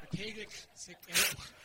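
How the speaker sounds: "täglich sich erobern" with throaty, spitting consonants; almost spit the ch in "täglich sich erobern"; loud, exaggerated German ch in "täglich sich erobern"; guttural German. Shown as a demonstration. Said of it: "the hard thing of German is that".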